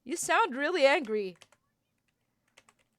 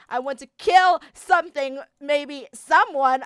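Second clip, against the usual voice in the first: louder, rising rage; angry outburst; 6 dB louder than usual. Acted. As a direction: let the fury spill out. Raging in-character outburst.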